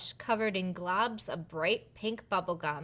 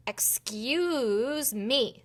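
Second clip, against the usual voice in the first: polite little fairy; 3 semitones higher, much slower than usual. Acted. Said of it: "said Becky".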